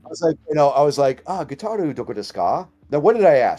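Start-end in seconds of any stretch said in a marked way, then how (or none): 1.3-2.7 careful Japanese question with the California accent played down; toned-down American-accented Japanese. Traveler asks bartender where the guitar is, careful American-accented Japanese. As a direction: try for Japanese pronunciation, American accent held back. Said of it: "passion Nihongo".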